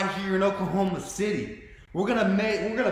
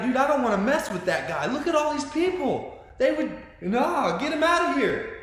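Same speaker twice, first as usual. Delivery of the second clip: higher-pitched mock alarm; alarmed onlookers; 6 semitones higher than usual. Imagined onlookers facing ninety thousand people, mildly alarmed. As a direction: play intimidated bystanders backing off.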